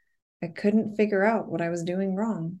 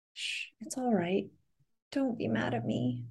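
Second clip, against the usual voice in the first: softer, hushed plea through tears; pleading; 4 semitones higher, 6 dB quieter than usual. A narrator's reading. Edna begs Jess not to be angry, soft pleading. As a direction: beg quietly, shaken. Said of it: "she pleaded".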